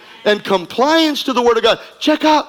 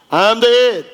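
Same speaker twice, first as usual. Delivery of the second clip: call and response lead. Acted. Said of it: "Go ahead and you can say it with me".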